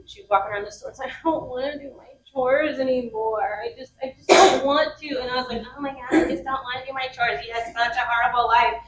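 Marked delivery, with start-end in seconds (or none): 1.1-5.1 lightly voiced complaining child, drawn out; upset child. Daughter protesting her chores to mom, mildly upset. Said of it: "She was in her emotions". 5.8-8.8 mildly mocking mock-sympathy; sarcastic. Mom teasing her upset daughter, mildly sarcastic. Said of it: "natural instincts to just be sarcastic".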